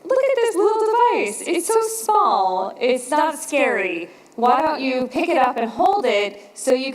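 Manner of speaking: a doctor coaxing a nervous patient, lightly imitated; reassuring doctor. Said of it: "he's looking at me kind of expectantly".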